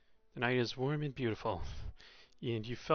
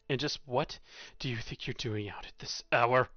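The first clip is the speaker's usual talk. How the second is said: nearly shouting; 4 dB louder than usual. Acted. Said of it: "He nearly shouts at you".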